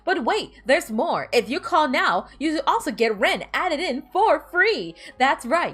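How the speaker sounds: lightly hammed infomercial pitch; commercial voice. Shown as a demonstration. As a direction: hype the product like late-night TV. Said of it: "I do a really good commercial voice".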